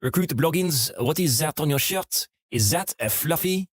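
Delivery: lightly voiced French-Canadian sergeant accent; a hint of a French-Canadian sergeant grilling a recruit. French-Canadian sergeant questioning a recruit, light French-Canadian accent. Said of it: "with this accent".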